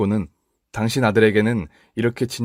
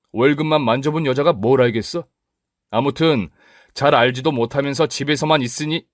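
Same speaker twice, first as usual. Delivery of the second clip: husband brushing off his wife with irritation; irritated husband; 4 semitones higher than usual. Acted. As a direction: snap back, annoyed and dismissive.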